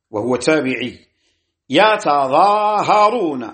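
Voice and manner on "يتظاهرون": "يتظاهرون" as yataZaaharun, ta sounded separately; unmerged ta and Za. Shown as a demonstration. Teacher showing another reading, "يتظاهرون" without merging the ta. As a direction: keep ta apart from Za in "يتظاهرون". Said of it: "بفك الإدغام".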